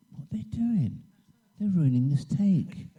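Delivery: mock-baffled, rising protest; acted indignant bewilderment. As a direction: complain as if your take is being wrecked. Retelling his outrage at intruders.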